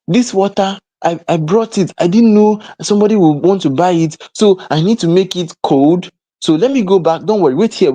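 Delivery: high, eager mock-helpful voice; excuse-maker. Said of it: "some people will actually pause there and say".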